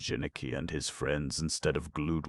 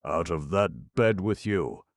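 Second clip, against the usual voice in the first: screamed order; 2 semitones higher, 5 dB louder than usual. Acted. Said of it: "screamed Kabumpo".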